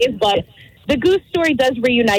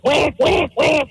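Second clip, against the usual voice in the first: imitated goose honk; 3 semitones higher, much slower than usual. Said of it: "all of a sudden I hear".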